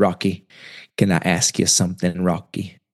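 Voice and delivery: slow, unhurried, real country drawl. Retelling advice from an older mentor, the speaker imitates his slow country drawl. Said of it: "he talks real slow. He's real country".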